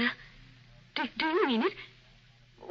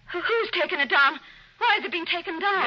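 alarmed; 5 semitones higher, 3 dB louder than usual. Acted. Wife alarmed about missing picture.

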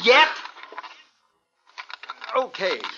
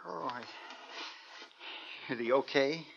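very soft, lowered question; hushed; 5 semitones lower, 17 dB quieter than usual. Acted. Father asks after sleeping son, hushed. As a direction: drop the voice beside a sleeping child.

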